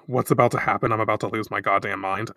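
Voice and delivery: normal talking voice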